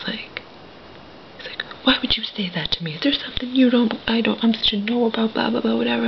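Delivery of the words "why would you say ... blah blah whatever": fast, higher-pitched mock indignation; retold upset protest. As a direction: rattle off his upset reaction, rising in pitch. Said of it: "he got all upset".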